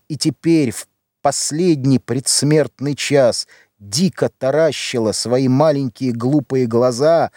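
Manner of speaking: usual speaking voice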